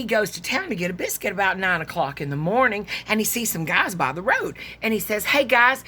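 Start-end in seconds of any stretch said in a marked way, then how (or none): 5.3-5.8 calling out. Acted. Farmer calling to men by road.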